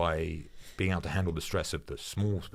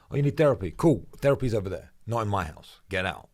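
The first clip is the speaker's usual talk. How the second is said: mocking dismissal. Teammates mocking a complainer.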